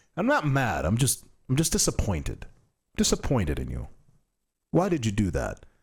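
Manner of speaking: swooping, disappointed, lecturing dad voice. Imitating a disappointed dad scolding a child: imitating a disappointed dad. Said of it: "It almost sounds like a, like a dad".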